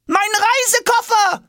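high, loud, slow pleading call; pleading cry. A narrator's reading. Boy calling pleadingly after his vanishing suitcase. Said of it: "ruft Jonas flehend".

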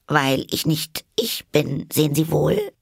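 put-on high, earnest girl's voice; Alice. A narrator's reading. Alice explains herself to the caterpillar. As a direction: plead to be understood.

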